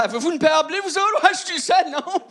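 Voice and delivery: high timid voice. Retold or imitated. Asking hunters for blue pants.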